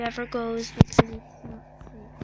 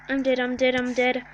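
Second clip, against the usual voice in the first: loud despair; 4 dB louder than usual. Real, not acted. Loud despair, dying in game.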